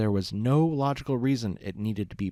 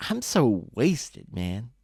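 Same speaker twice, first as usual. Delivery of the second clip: put-on drunk Loose Leaf; much slower than usual. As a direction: ramble like a happy drunk friend. Drunk pony rambling to Brick.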